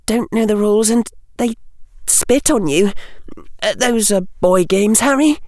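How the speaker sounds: put-on high girl's voice, flustered and prim; lightly voiced schoolgirl, a little huffy; young girl Hermione. A narrator's reading. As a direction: answer a bit embarrassed, a bookish girl.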